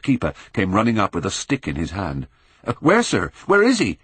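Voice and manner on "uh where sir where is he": loud, higher urgent call; shouting. A narrator's reading. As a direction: shout while running up. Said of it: "he shouted".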